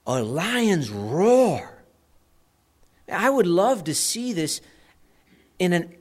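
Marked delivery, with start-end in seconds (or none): 0.1-1.8 very slow, stretched-out words; imitated lion's roar. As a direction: draw out the roar for dramatic weight. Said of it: "his voice, it sounded like".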